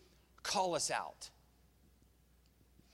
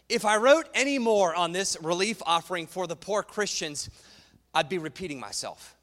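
sarcastic; 3 semitones higher, 7 dB louder than usual. Retold or imitated. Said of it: "That's sarcasm".

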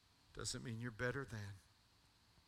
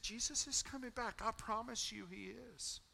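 fervent declaration; 11 semitones higher than usual. Retold or imitated. Son preaching to teammates.

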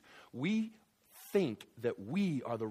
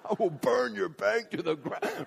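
mock New Yorker threat; 7 semitones higher, 5 dB louder than usual. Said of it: "if you're from New York".

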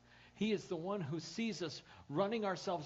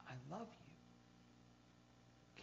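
slow breathy whisper, drawn out; 14 dB quieter, much slower than usual. Acted. Preacher voicing God's love to the congregation in a slow whisper.

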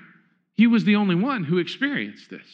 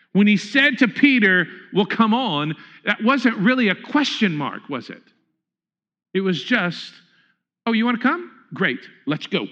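preaching. Acted. Preaching a sermon.

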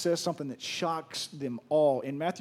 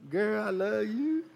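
tender to his wife; 5 semitones higher, slower than usual. Real, not acted. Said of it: "I love my girl".

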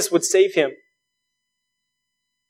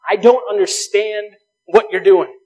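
earnest prayer; 2 semitones higher, 6 dB louder than usual. Retold or imitated. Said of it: "we can pray and say".

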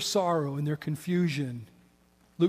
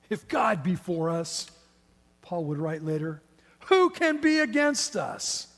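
preaching scripture. Acted. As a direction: proclaim the verse with rising fervour. Quotes scripture with rising fervour.

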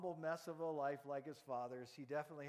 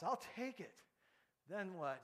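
Mary's reply; 2 semitones higher than usual. Acted. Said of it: "And Mary's response".

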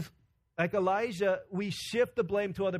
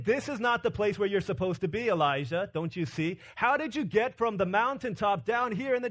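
raised, insistent rebuke; emphatic challenge; 4 semitones higher, 3 dB louder than usual. Acted. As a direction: confront a wayward servant with urgency. Acting out God confronting Elijah.

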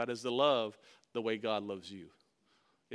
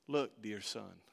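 gentle father; 6 semitones lower, 5 dB quieter, slower than usual. Retold or imitated. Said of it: "I could just hear this gentleness in his voice".

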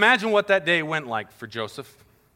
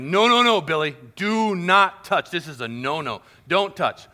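put-on raised, firm voice of a parent warning a child; parent scolding toddler; 4 dB louder than usual. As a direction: tell little Billy no, firmly.

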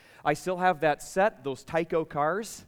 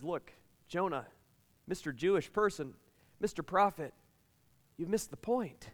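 softer, patient God correcting Jonah; gently chiding God; 4 dB quieter than usual. Acted. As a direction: quietly set Jonah straight. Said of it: "And God says".

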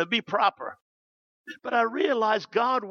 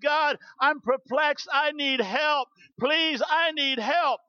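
higher-pitched imitation of a pleading wife; tearful plea retold; 4 semitones higher, slower than usual. Mayor's wife retelling her kitchen prayer, mock tearful plea. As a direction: plead for help, drawing out the last appeal. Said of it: "his wife starts crying".

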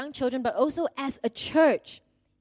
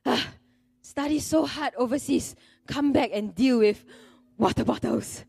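mock scornful huff at a petty task; youthful arrogance; 2 semitones higher, 3 dB louder than usual. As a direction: recall being a young, self-important teacher, exasperated. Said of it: "youthful arrogance and attitude".

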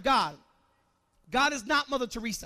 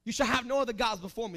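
God's proclamation; 3 dB louder than usual. Acted. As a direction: boom it out as God. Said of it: "he said".

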